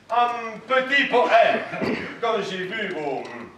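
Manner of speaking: slow, halting fake German accent; put-on German accent. Con man flattering the hostess's eyes, halting put-on German accent. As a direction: improvise slowly in a mock German accent. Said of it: "pourquoi pas un Germain?".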